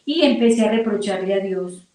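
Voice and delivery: ordinary talk, nothing marked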